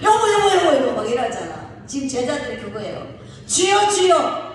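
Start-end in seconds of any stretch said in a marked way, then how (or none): 0.0-0.9 much higher, loud, rapid "여보, 여보, 여보, 여보"; urgent calling. Shown as a demonstration. Husband in an emergency calling wife, frantic shout. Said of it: "급한 일이 있으면". 3.5-4.5 much higher, slow, drawn-out loud "주여, 주여"; urgent cry. Retold or imitated. Disciples in the storm crying to Jesus, drawn-out wail. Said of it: "급하다는 거예요".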